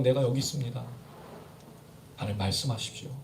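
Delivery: low, very soft, humble prayer; hushed submission. Acted. Preacher models being content before God, hushed submission. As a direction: yield quietly to God, dropping low.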